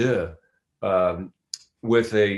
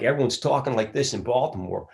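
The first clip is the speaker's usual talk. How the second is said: higher-pitched demo of a Baltimore accent; 4 semitones higher than usual. Shown as a demonstration. Actor showing how speech shifts by Baltimore, Baltimore accent. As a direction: exaggerate the Philly vowels into Baltimore. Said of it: "becomes more extreme and get to Baltimore".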